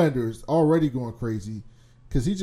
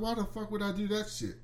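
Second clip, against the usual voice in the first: mock Homelander; 9 semitones higher, 11 dB quieter than usual. Homelander voiced in retelling.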